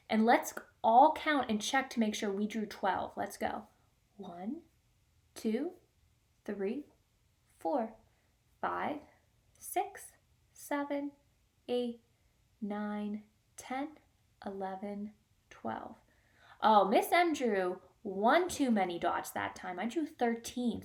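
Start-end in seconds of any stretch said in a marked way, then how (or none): 4.2-16.0 soft counting under breath; whisper counting. Shown as a demonstration. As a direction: count along quietly for the class. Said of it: "Let's whisper count".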